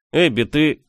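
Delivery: mildly exasperated, leave it hanging; theatrical exasperation. A narrator's reading. Friend despairs of the girl, theatrically exasperated. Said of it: "Он театрально вздохнул".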